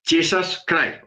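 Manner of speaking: slow "Jesus Christ" as "tchissas kraif"; "Jesus" drawn out slowly, starting on "tch"; English pronunciation. Retold or imitated. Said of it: "hay unos que dicen".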